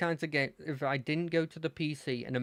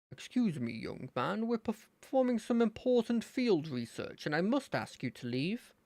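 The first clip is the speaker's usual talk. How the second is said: important researcher; 4 semitones higher than usual. Acted.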